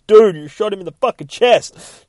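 loud, high acted-out outcry; shocked protest. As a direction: yell in disbelief as the character. Acts out shocked protest at shooting.

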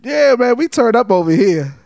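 hype. Acted. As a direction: lively hype call. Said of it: "you told me I had to be lively".

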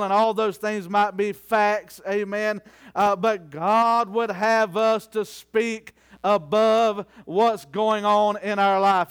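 measured, stretched pulpit phrasing; emphatic preaching. Real, not acted. Preacher urging believers to speak what God says, emphatic preaching. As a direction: press each phrase on the congregation.

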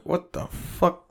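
slow, hushed whisper of disbelief; whispered what the fuck. Retold or imitated. Texting his friend, whispering in slow disbelief. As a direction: breathe it out slowly, stunned. Reaction to friends already in room.

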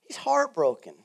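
breathy hush; whispered. Acted. Preacher on God's grief: hushed whisper. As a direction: let it fall to a whisper.

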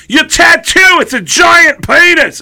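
high, drawn-out comic shout; a rock singer. Retold or imitated. Singer insisting to drummer about the tattoo, hollering. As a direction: yell it like a rock singer. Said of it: "He goes".

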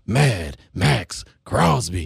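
slow hyped announcer voice; drawn-out big sports hype intro; action mode voice. Shown as a demonstration. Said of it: "I could talk like this all day long".

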